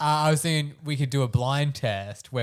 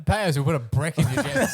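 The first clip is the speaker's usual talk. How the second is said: laughing; 2 semitones higher than usual. Real, not acted. Joke said laughing.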